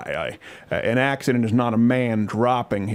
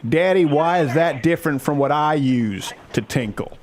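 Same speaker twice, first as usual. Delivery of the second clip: put-on high, childlike voice asking daddy questions; little daughter voice; 4 semitones higher than usual. Father imitating his nine-year-old daughter asking daddy, high childish voice. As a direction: play a curious nine-year-old girl tugging at daddy. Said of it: "questions I want to have to answer my nine-year-old daughter".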